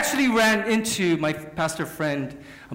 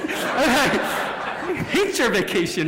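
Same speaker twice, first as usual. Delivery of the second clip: laughing mock jealousy; 10 semitones higher, 6 dB louder, much slower than usual. Jealous joke about friend's vacation.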